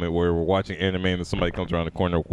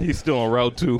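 laughing; 4 semitones higher, 3 dB louder than usual. Real, not acted. Joking, laughing.

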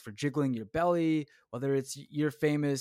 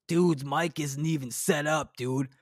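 mock commenter. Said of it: "the way it works is".

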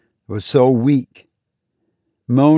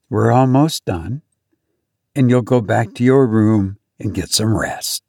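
calm. Acted. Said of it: "And she said calmly".

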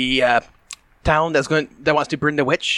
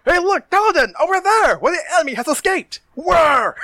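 sneaky trickster. Acted. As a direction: point away excitedly to distract him. Tricking the paladin scene.

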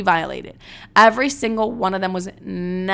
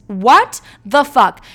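shocked; 4 semitones higher, 8 dB louder, much slower than usual. Real, not acted. Shocked reaction.

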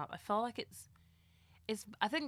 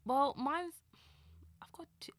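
whisper; 8 semitones higher than usual. Real, not acted. Hesitant start of her pick.

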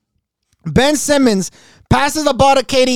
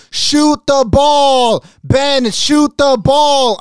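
slow drawn-out shout; Kyrie yelling; 4 semitones higher, much slower than usual. Retold or imitated. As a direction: yell it from the sideline. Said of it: "you can just hear Kyrie in the background like".

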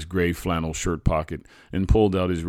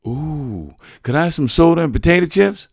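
high, fast, eager little voice; a kid hoping for a treat; excited child; 12 semitones higher, 12 dB louder than usual. A narrator's reading. Boy asking his father for soda and chips, high and excited. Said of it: "I asked".

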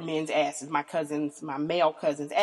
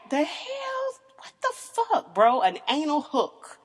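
very high, squealing disbelief; mock outrage; 8 semitones higher, slower than usual. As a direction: shriek it like you can't believe him. Retold shocked reply to boyfriend.

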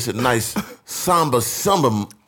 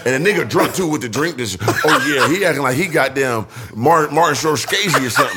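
laughing while mocking; 4 semitones higher, 4 dB louder than usual. Real, not acted. Laughing, mocking drunk guy.

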